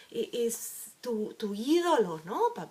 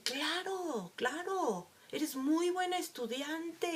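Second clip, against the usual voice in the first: sarcastic dad; 5 semitones higher, 3 dB quieter, slower than usual. Retold or imitated. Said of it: "va a decir".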